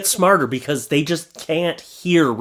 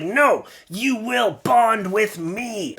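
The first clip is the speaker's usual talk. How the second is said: mock stern dad; 5 semitones higher, much slower than usual. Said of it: "but I was like".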